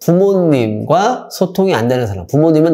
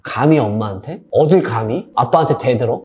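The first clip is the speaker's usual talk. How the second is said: 1 mocking echo; 4 semitones lower than usual. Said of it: "최악의 부모".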